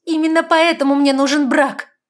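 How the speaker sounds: high, very loud snap; barked. A narrator's reading. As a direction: bark it at him. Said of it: "рявкнула девушка".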